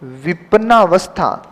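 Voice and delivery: विपन्नावस्था with long आ in the middle, slow; teacher spelling out विपन्नावस्था slowly; correct form. Shown as a demonstration. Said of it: "विपन्नवस्था नहीं".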